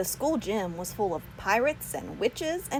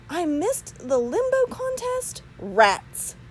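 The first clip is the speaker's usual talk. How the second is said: surprised; 10 semitones higher, slower than usual. A narrator's reading. Stanley disappointed.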